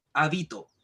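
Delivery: "habito" stressed on the middle syllable, ha-BI-to; teacher's demo of "habito", stressed ha-BI-to. Shown as a demonstration. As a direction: lean on the "bi" in "habito". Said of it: "dependiendo dónde nosotros estamos acentuando esa palabra".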